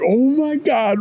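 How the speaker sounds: high-pitched mock dismay; retold panic. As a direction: act out a flustered dad's alarm. Reacting to spilled Slurpee.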